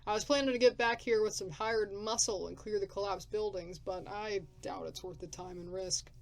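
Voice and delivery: loud, rough wasteland drifter; gruff drifter. Acted. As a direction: bark it like a grumpy survivor.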